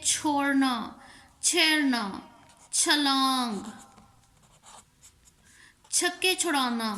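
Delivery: छोड़ना, छेड़ना, छलांग, छक्के छुड़ाना with a breathy-released chh; aspirated chh. Shown as a demonstration. Teacher giving Urdu examples of the chhe sound, aspirated chh. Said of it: "छे की आवाज़ निकालनी है".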